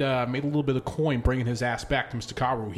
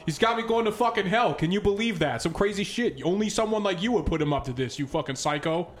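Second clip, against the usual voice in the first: Bond's voice; 5 semitones higher than usual. Acted. Bond hams up a greeting.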